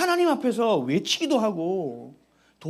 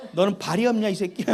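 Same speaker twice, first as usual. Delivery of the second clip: 1 inner grumble. Retold or imitated. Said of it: "속으로".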